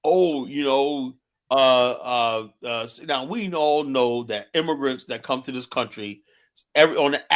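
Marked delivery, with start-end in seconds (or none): 0.0-2.8 slow, drawn-out stalling mock of a friend; a light send-up of someone fumbling for words; imitating Kwame. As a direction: stretch the oh, then hem and haw. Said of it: "what Kwame does sometimes".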